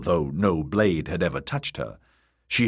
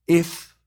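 "if" pitched high and punched louder; stress on if; 11 semitones higher, 5 dB louder than usual. A narrator's reading. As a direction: lean hard on the lone word "if". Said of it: "Sam stressed".

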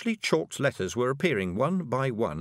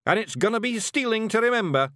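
high, louder Scots rally; rousing yell; 12 semitones higher, 4 dB louder than usual. A narrator's reading. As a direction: whip the clan into a cheer. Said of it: "Rob yelled".

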